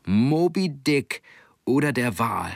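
slow halting reading aloud; sounding out words. Acted. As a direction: read it out syllable by syllable. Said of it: "las Hermann Silbe für Silbe vor".

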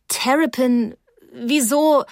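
high, worried question; anxious protest. A narrator's reading. Frightened girl questions Terrapin.

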